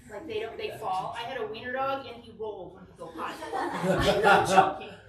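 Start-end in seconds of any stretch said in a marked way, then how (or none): 2.1-4.9 giggling through the words; breaking up with laughter; laughing. Real, not acted. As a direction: laugh while telling it. Laughing at own story.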